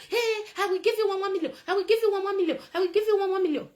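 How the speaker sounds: high, loud repeated mock promise; mocking Sowore shouting. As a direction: ham up the cash promise again and again. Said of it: "He was shouting".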